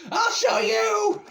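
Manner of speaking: high, drawn-out shout; mock defiant yell. Imagined bus driver threatening a school, hammed-up yell. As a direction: yell it like a crazed attacker.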